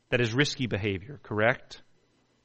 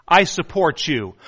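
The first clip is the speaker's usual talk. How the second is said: mock supportive shout; 2 semitones higher, 6 dB louder than usual. Member encouraging the suicidal man.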